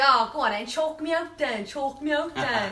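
imitated loud, taunting dare; acting hard. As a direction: goad them like a cocky tough guy. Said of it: "acting hard".

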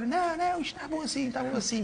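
put-on a high, teasing Madeiran-accented plea; Madeiran accent imitation. Teammate mimicking Cristiano begging to drive the cart, Madeiran accent. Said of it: "com aquele sotaque ainda madeirense".

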